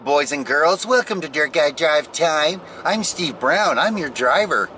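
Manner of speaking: lightly put-on cheesy radio host voice; silly host voice. Radio host greeting boys and girls in a silly voice. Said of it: "I like doing silly voices".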